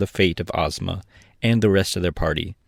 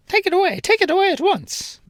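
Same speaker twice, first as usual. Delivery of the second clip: panicked king; 4 dB louder than usual. A narrator's reading. King panics about the egg.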